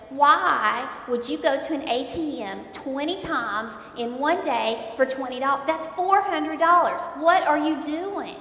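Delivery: loud, demanding questions; retold confrontation. Wife confronting husband over ATM withdrawals, loud and demanding. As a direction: demand answers from him over the phone.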